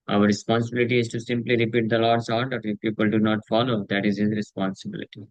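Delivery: measured, very slow reading of the translation; solemn scripture translation. Acted. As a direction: read each word deliberately to the listeners. Reads English translation slowly.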